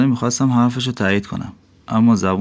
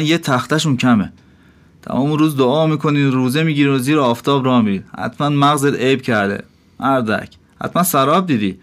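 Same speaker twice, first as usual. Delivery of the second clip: irritated innkeeper, a bit higher, lightly angry; 4 semitones higher than usual. Acted. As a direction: scold the wandering dervish. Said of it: "با عصبانیت گفت".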